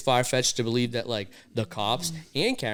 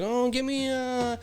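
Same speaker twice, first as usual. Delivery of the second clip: higher, musing ordering voice; acted food order; 6 semitones higher than usual. Co-host retelling his order at the counter, higher voice. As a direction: draw out the order at a higher pitch.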